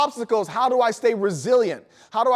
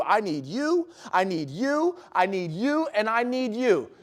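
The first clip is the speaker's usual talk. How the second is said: softer, repeated I need you; sincere appeal; 4 dB quieter, slower than usual. Real, not acted. Speaker tells each listener they matter, soft sincere appeal. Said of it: "pointing at audience members".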